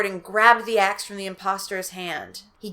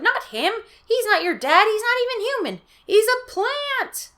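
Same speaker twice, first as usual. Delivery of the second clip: urgent warning; 3 dB louder than usual. Acted. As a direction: warn them desperately. Father warning kids.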